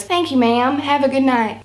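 lightly attempted Australian accent; a hint of put-on Australian. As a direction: do a bad, half-there Australian accent. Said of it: "That was my Australian accent".

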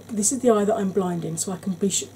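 sore, swollen throat voice; speaking through swollen tonsils. Real, not acted. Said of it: "what is wrong with my throat today".

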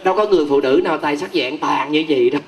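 ordinary talk, nothing marked

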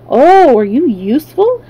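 sudden surprised interest. A narrator's reading.

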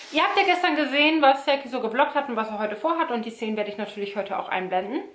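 talking with braces in, lisping. Real, not acted. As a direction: lisp from wearing braces. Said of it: "Entschuldigt bitte das Lispeln, ich habe meine Zahnspange drin".

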